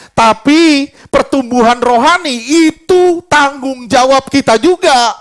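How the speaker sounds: slowed down, each word leaned on; slow and weighty. Shown as a demonstration. Preacher slowing down to drive the point home. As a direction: lay the point down slowly for the church. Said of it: "Sekali lagi".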